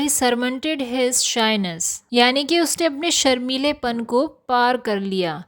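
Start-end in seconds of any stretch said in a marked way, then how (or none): 0.0-2.0 very slow, careful teacher reading; slow example sentence. Shown as a demonstration. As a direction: read it out slowly for learners.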